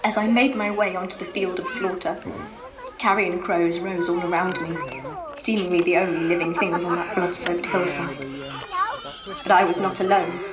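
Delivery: lightly voiced medieval lady; grieving widow narrating. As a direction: tell it as Edith, solemn. Edith narrates in character.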